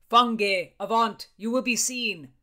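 loud, urgent warning shout; bursting out. A narrator's reading. Bacon warns the lovers from the window, loud outburst. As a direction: bark it down from above. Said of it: "Bacon's voice burst from above".

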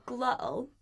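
"glottal" with a catch in the throat for tt; glottal stop. Shown as a demonstration. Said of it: "that sound there in the middle".

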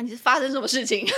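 laughing question. Retold or imitated. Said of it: "他们可能就会说".

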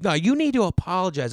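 high, loud scolding demand; hammed-up scolding lady; demanding old woman. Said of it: "She goes".

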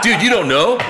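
high, loud mock-incredulous outburst; retold amazement. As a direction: imitate a friend's laughing disbelief. Retelling friend's amazed, laughing reaction.

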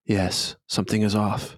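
understated, lightly voiced reply; restrained in-character agreement; agreeing character. Second figure agrees.

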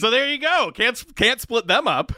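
high, giggling through the joke; laughing. Real, not acted. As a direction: tease it through real laughter. Joking after surprising stat.

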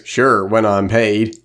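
slow, lightly done hillbilly drawl; a hint of a hillbilly accent, slow. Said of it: "in his best hillbilly accent".

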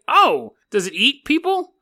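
hope for something scary; mock eager question; hopeful excited question. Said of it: "And I was like".

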